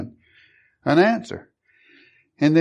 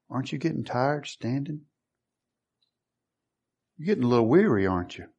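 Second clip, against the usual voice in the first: soft, voiced mock whisper; imitated whisper; 5 dB quieter, faster than usual. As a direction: murmur it softly, like a tempter in the ear. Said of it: "you hear this whispering in your ear".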